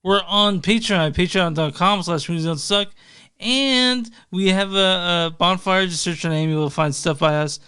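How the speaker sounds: slightly slurred tipsy talk. Real, not acted. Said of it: "I just realized I'm pretty drunk right now".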